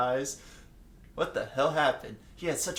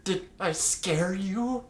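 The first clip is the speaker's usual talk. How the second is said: slow gentle ask; 6 semitones higher, much slower than usual. Acted. Jotaro gently asks frightened friend.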